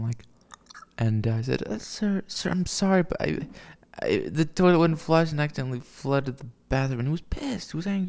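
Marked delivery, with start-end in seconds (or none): 1.7-7.0 higher, timid pleading to the tech guy; mock nervous schoolboy apology. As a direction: grovel a little, voice pitched up. Retelling apology to angry tech guy.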